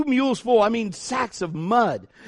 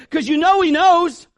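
ordinary delivery

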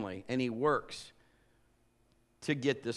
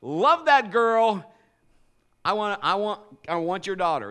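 eager lovestruck plea; 3 semitones higher, 6 dB louder than usual. Retold or imitated. Jacob asking Papa for his daughter, loud eager plea. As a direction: beg the father with eager longing. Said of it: "he says".

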